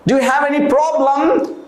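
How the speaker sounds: ordinary talk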